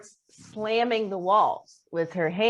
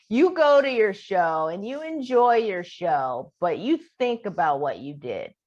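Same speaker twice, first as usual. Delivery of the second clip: imitated scolding. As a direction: lecture them like a wronged roommate. Acting out roommate's scolding.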